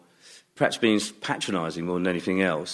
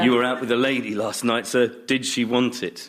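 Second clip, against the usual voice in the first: suggestive tailor. Retold or imitated. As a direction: drag out the leer. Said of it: "quoting Suit You again".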